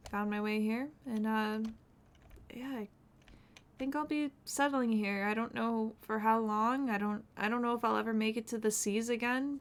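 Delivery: Shiloh the escaped sailor, quiet and reflective; in-character sailor telling his story. Acted. Roleplay character quietly telling other players his backstory, subdued. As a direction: softly recount the escape, a touch wistful.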